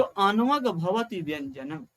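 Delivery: slow, measured recital of the sutra; Sanskrit recitation. Shown as a demonstration. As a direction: recite the Sanskrit line deliberately. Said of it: "ये संस्कृत में line बोल रहा हूं".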